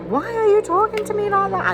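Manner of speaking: high, loud indignant snap; angry outburst. Retold or imitated. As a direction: shoot back, offended and loud. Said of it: "and then I'm like".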